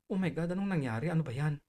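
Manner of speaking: soft, mildly startled aside; quiet, unassuming reaction; small gentle voice. Retold or imitated. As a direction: keep the surprise small and soft. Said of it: "Maliit yung boses ko, malumanay".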